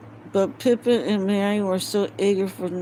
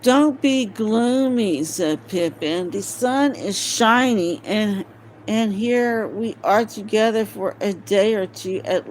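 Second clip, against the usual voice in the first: cheerful Pippin; 3 semitones higher, 7 dB louder than usual. Acted. Pippin cheering up gloomy Gimli.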